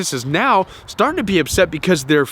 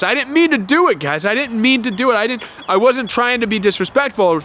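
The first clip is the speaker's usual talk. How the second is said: higher, pleading and defensive; whiny defensive; 5 semitones higher than usual. Retold or imitated. Anxious victim pleading innocence to accusing family, whiny. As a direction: beg them to believe you didn't mean it. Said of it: "this defensive place".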